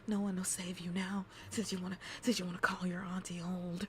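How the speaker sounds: sinister whispered taunt; creepy auntie whisper. Pretend. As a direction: whisper a threat like a spooky auntie. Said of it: "Auntie will make you cry".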